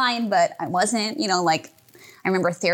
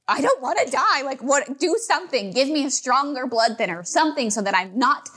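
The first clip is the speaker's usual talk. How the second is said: desperate plea; 5 semitones higher than usual. Retold or imitated. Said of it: "it was just one of those moments".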